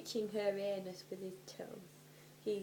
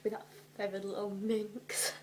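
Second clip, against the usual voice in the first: sly whisper. Acted. Voicing Ron's sly retort.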